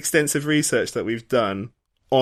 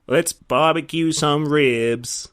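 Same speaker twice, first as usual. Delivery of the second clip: put-on Singaporean accent; much slower than usual. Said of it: "Do a perfect Singaporean accent".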